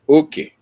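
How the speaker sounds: Okay with the first syllable high and the second low; high-low tones. Shown as a demonstration. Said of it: "High, low".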